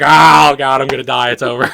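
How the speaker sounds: mock despair, loud cry sinking away; hammed-up doom, starting loud and dropping; freaking out. Dreamer retelling flickering lights, freaking out then giving up. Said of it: "And I'm freaking out here".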